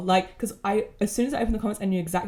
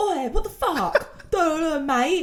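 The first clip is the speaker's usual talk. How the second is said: put-on over-the-top drunk British accent, slow, pitched up; 9 semitones higher than usual. Explaining how a little alcohol brings the accent out, in a full british accent. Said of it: "Like I go full full British".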